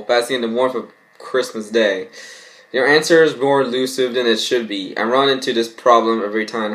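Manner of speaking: normal talking voice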